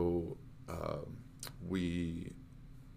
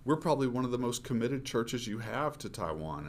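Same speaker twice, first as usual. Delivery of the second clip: mild retold anger; 5 semitones higher than usual. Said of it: "it just made me angry".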